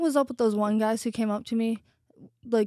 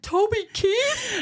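slow high drawn-out realization; slow, high surprised realization; mock realization; 11 semitones higher, much slower than usual. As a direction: say it slowly as it dawns. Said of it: "I'm like".

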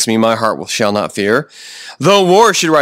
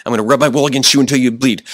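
mock tough sheep; faster than usual. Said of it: "that's not what sheep do".

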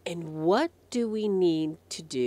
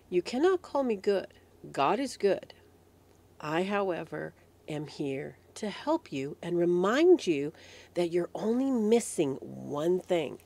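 gently spoken words of Jesus; measured, tender reassurance; loving. Acted. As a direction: answer the boy with patient, loving care. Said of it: "very lovingly says".

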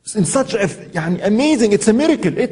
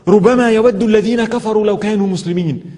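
rapid Arabic verse, rattled off fast; quick Quran recitation; much faster than usual. Acted. Preacher quoting Surah Al-Qamar to the listeners, fast recitation.

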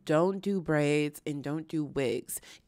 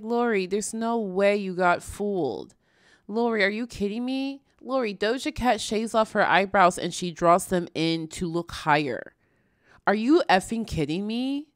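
exasperated; 2 semitones higher, 5 dB louder than usual. Real, not acted. Exasperated address to Lori.

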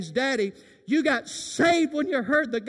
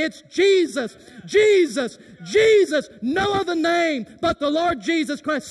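Jesus shouted louder each time; rising shout; 5 semitones higher, 7 dB louder than usual. Acted. Preacher voicing the whole building shouting Jesus.

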